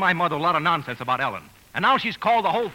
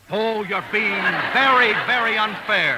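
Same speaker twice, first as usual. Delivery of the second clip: exasperated protest; 4 dB louder, slower than usual. Acted. Lovers' quarrel.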